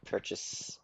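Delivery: breathy whisper. Real, not acted. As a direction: whisper it to yourself. Reading a menu option.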